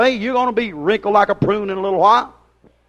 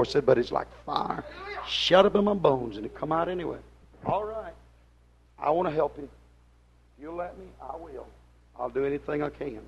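much softer, lower pulpit voice; soft pleading; 5 semitones lower, 7 dB quieter than usual. Acted. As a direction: plead with them gently after the storm. Preacher drops to soft pleading.

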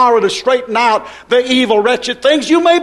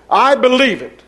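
firm declaration; 2 semitones higher than usual. Real, not acted.

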